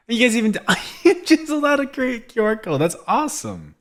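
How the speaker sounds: thrilled high-pitched excitement; delighted squeal. Real, not acted. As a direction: gush with sudden delight. Finding the secret QR code.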